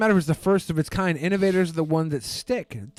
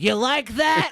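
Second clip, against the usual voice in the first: mock macho shout; 7 semitones higher, slower than usual. Comedian voicing a wrestler taunting his opponent, mock shout. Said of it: "and he's like".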